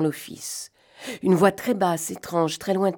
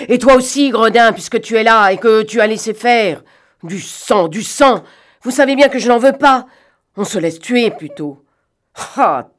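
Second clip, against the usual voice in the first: loud, furious scolding, higher in pitch; a furious, raised-voice rebuke; pale with anger; 4 semitones higher, 6 dB louder than usual. Acted. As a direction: rage at the accomplice over the bloodshed. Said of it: "Pâle de colère".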